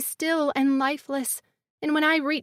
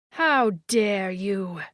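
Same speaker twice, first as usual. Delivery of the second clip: menacing creature voice; 6 semitones lower, much slower than usual. A narrator's reading. Glazer women confronting, furious.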